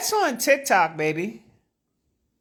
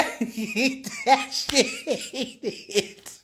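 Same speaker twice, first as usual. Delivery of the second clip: laughing squeal; 7 dB quieter, much slower than usual. Real, not acted. Continued laughing fit.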